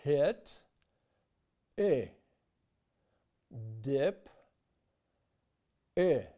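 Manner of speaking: vowel comparison demo; English vowel versus Russian ы. Shown as a demonstration. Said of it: "like this".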